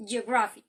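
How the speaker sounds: geography said carefully to show its stressed syllable; stress demo. Shown as a demonstration. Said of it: "the stress is in the first syllable".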